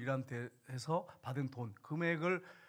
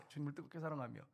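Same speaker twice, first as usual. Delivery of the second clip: soft echo; 9 dB quieter than usual. Real, not acted. Pastor echoing his plea to the congregation, hushed. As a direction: let the phrase fall to a hush.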